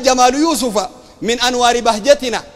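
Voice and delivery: slow, measured poetic recital; verse recitation. Retold or imitated. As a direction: recite it as verse, drawing out the vowels. Quoting Sufi verse to ridicule it.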